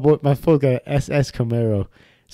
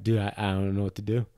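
helpless; 6 semitones lower, 9 dB quieter than usual. Retold or imitated. Retold friend at a loss.

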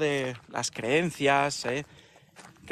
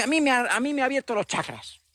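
mock enlightened; 6 semitones higher than usual. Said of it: "De repente dice".

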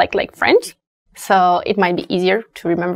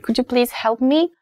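polite, higher-pitched question rising at the end; polite request; 4 semitones higher, 3 dB quieter than usual. Acted. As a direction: politely ask a stranger for help. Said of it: "I wanna be polite".

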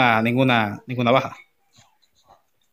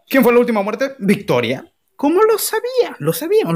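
victory hype; 8 semitones higher than usual. Real, not acted. Victory celebration announcer.

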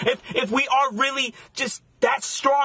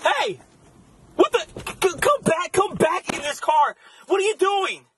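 alarmed shouting after the car; calling out after her; 7 semitones higher than usual. Acted. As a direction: boyfriend calling the girlfriend back to the car. Calling after girlfriend driving off.

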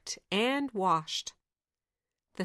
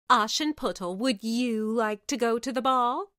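mocking; 3 semitones higher, 4 dB louder than usual. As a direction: taunt her with fake sweetness. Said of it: "asked mockingly".

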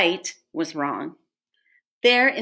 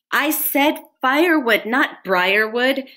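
high, emphatic yelp of complaint; 6 semitones higher, 4 dB louder than usual. A narrator's reading. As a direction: yelp it, stretching the words. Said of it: "he yelped".

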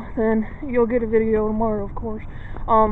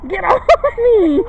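annoyed; 9 semitones higher, 6 dB louder, slower than usual. Real, not acted. Girl keeps bumping into her.

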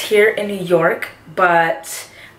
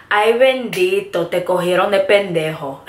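Puerto Rican accent. Shown as a demonstration. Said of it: "Ay bendito is something that we use to say".

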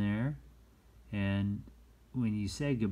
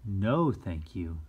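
polite no; 4 dB louder, slower than usual. Shown as a demonstration. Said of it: "Here's a nice way to say no".

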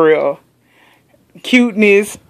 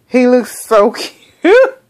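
laughing gush; 5 semitones higher, 3 dB louder than usual. Real, not acted. Gushing, laughs mid-line.

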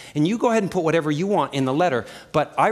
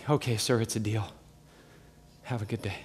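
mock curt banker, softer; 7 semitones lower, 10 dB quieter than usual. Banker agrees, hangs up.

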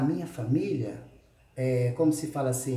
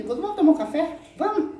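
teasing invitation; 13 semitones higher, 5 dB louder than usual. Acted. Playful invite to rival.

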